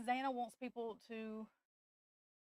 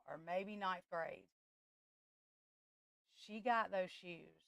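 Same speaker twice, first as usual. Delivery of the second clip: tearful, quiet; 4 dB quieter than usual. Real, not acted. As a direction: voice softening as tears come. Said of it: "I'm finna cry again".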